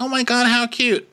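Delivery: very high cooing imitation; high-pitched mock gushing; gushing grandparent. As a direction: coo over a baby like a besotted grandparent. Same grandparent cooing again.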